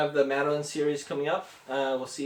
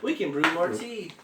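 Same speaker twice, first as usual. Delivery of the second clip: higher-pitched, perky little mouse; squeaky mouse; 6 semitones higher than usual. A narrator's reading. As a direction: soothe the bear in a small squeaky voice. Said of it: "Mouse squeaks".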